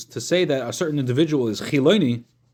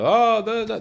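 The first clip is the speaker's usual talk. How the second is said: mock eager listener; 10 semitones higher, 5 dB louder, slower than usual. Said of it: "everyone's like".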